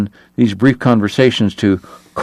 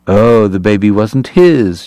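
breezy; slower than usual. Acted. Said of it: "she admitted breezily".

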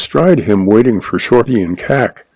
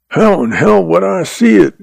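higher, mildly irritated comeback; growled retort; 9 semitones higher than usual. A narrator's reading. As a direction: growl it lightly, with pitch jumping up. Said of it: "Shorty growled".

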